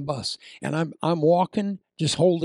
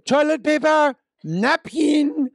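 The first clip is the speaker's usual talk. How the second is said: much higher, loud desperate yell; 12 semitones higher, 6 dB louder, slower than usual. Retold or imitated. Stuck in the bathroom shouting for paper, loud and desperate. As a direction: shout for help from the stall. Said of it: "Now I'm yelling from the ba".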